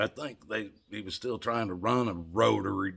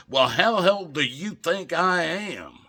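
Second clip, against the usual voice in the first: lightly voiced woman, high and slow; imitated woman; 8 semitones higher, 5 dB louder than usual. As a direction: imitate her question, high, loud, drawn out. Woman's challenge acted in story.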